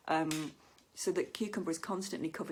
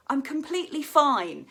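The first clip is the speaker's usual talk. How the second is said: suspicious; 8 semitones higher, 9 dB louder than usual. Shown as a demonstration. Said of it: "sound suspicious".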